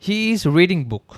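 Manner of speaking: He is reading book read very slowly, word by word; slow model sentence; slow example sentence. Shown as a demonstration. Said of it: "এটা কি".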